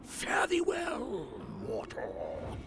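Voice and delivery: theatrical farewell. Acted. Grand farewell to a mortal.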